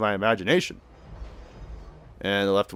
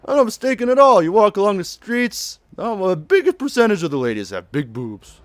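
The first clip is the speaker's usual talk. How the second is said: high, louder mock insistence; insistent character voice; 9 semitones higher, 5 dB louder than usual. Saejima insisting to her about local women, hammed-up protest. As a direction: argue it hammed-up, easing down toward the end.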